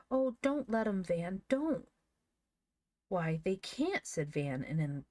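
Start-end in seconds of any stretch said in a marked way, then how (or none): 0.1-1.9 high, louder tearful plea; sobbing plea. A narrator's reading. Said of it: "burst out into a torrent of sobs". 3.1-4.1 "can't" firmly stressed; emphatic. A narrator's reading. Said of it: "an emphatic voice".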